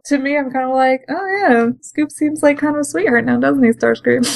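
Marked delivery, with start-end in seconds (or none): 1.1-4.2 mock teasing. Teasing Starscream in retelling.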